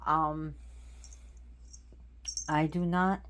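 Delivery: breathless after the commotion; out of breath. Real, not acted. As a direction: speak while catching your breath. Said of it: "whew, I'm out of breath".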